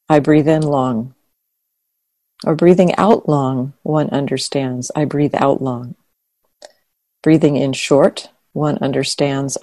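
measured, even reading of a sacred text; scripture reading. Acted. Reads the sutta section aloud.

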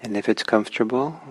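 unhurried guidance with long pauses; guided meditation. Real, not acted. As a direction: ease listeners into meditation, phrase by phrase.

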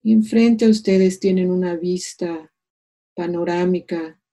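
calm meditation voice with long pauses; unhurried, soothing meditation leader; guided meditation. Acted. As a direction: guide them gently into stillness, leaving space between phrases.

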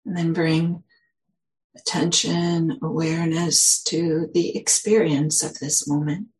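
unhurried, gentle guiding with long pauses; guided meditation. Real, not acted. Teacher leading the group into settling with a big exhale, guided meditation. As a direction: ease listeners into settling, leaving long silences.

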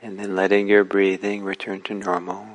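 unhurried instructions with long pauses; calm, spacious meditation-teacher delivery; guided meditation. Real, not acted. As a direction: guide listeners gently, phrase by phrase, leaving space between.

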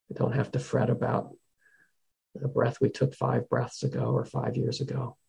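calm, measured delivery with long pauses; guided meditation. Real, not acted. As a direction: gently guide them to the breath, unhurried.

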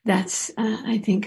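normal talking voice

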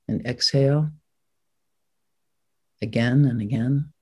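measured instructions with long pauses between; guided meditation. Acted. Teacher settling the group into an upright sitting posture, guided meditation. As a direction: guide the sitters unhurriedly, leaving room to follow.

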